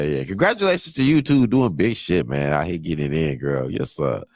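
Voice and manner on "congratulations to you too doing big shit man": excited congratulations. Real, not acted. Shouting out congratulations.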